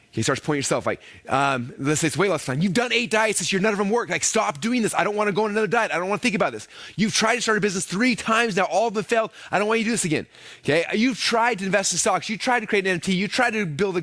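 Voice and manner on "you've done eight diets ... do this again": higher, nagging inner critic; discouraging brain voice. Retold or imitated. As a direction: list past failures as a higher nagging voice. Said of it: "It's saying".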